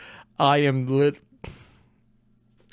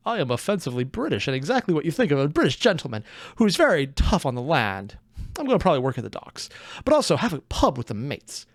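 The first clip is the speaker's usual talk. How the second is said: put-on British accent; 3 semitones lower than usual. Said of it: "I can't do a British accent".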